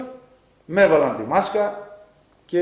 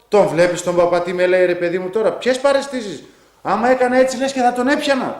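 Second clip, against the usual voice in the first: agitated plea; 3 semitones higher, 4 dB louder than usual. Retold or imitated. Frightened patient urging the nurse.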